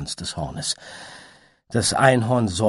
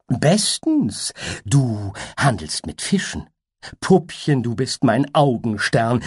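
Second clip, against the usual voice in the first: higher, louder teasing babble; high playful butterfly; 4 semitones higher, 4 dB louder than usual. Acted. Butterfly teases the unicorn in a high giddy voice. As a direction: toss off the phrases giddily.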